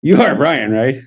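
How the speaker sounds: light question tipping into a chuckle; little laugh. Retold or imitated. Checking a stranger's identity, with a little laugh. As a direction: ask it lightly, chuckle right after. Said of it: "but I give it a little".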